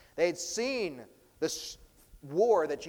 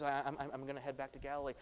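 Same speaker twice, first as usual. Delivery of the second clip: casual Jesus reply; 6 dB quieter, much faster than usual. Retold or imitated. Jesus voiced answering man.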